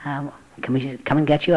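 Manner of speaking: put-on gentle old lady on the phone; kindly elderly woman; nice elderly lady. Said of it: "this very nice elderly voice of a lady".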